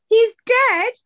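high, loud disbelief; retold shock. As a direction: act out stunned disbelief at news. Retold shocked message about a death.

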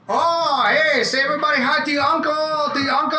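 high-pitched imitation of a Chinese mother's accent; bad Chinese accent. Mother telling her kids to greet the visiting worker, bad Chinese accent. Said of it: "I'm sorry if I'm being insensitive with the accent 'cause I'm terrible at it".

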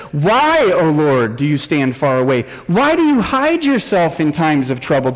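anguished psalm reading; crying out in pain. Acted. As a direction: plead with God, pushing up on each why. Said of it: "David crying out in this pain".

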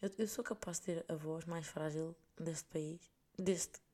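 hoarse, croaky goose voice; husky voice after a cold. Real, not acted. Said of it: "há eu com voz de ganso".

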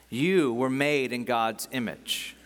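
slowed-down, measured address; slow, deliberate. Real, not acted. Preacher applying the verse to the listeners, slowly. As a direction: say it slowly so it sinks in. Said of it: "I wanna read this slowly".

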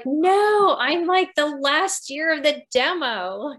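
high, loud mock panic over turning forty-nine; mock dismay. Telling the host about turning forty-nine, hammed-up dismay. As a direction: squeal it like the world is ending.

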